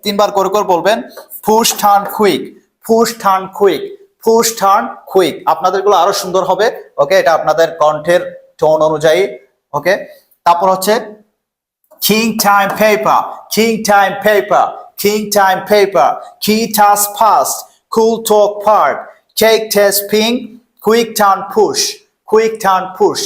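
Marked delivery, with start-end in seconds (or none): 1.5-5.3 "পুশ, টার্ন, কুইক" in a raised, measured chant with puffed consonants; loud aspiration drill. Shown as a demonstration. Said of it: "একটু loudly চেষ্টা করব এটা". 12.0-23.2 "কিং টাইম পেপার" measured, each k, t, p puffed; combined aspiration drill. Shown as a demonstration. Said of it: "combine করে একটু উচ্চারণ করার চেষ্টা".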